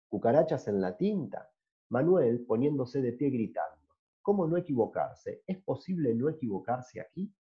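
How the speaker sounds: stage script read aloud, lightly voiced; play reading. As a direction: read the scene to the class. (lectura dramatizada de una obra de teatro)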